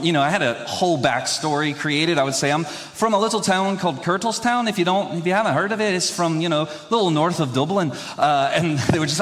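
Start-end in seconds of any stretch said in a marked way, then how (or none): 2.5-7.9 lightly faked Irish waiter; fake Irish accent. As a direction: put on a mild Irish brogue. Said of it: "pretend to be Irish".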